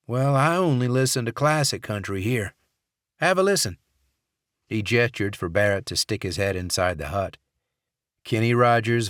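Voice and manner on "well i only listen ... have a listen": folksy guard voice. Acted. Dixon, proud of his radio.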